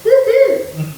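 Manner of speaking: both "Woo" and "hoo" strong, high and loud; "Woo-hoo" as two long, high beats; spondee rhythm. Shown as a demonstration. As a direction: give "Woo" and "hoo" equal full weight. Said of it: "both strong or both long".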